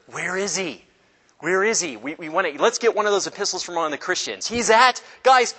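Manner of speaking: hammed-up hunter rallying the guys; acted-out pursuers. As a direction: play a persecutor excitedly hunting for someone. Hunters acted out seeking Peter.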